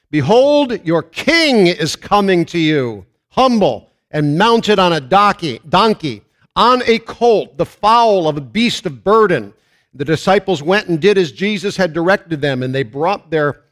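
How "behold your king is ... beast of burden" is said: louder, higher scripture read with slowed phrases; proclaimed scripture reading. Acted. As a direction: announce the king's coming like a herald. Reads the prophecy aloud in sermon.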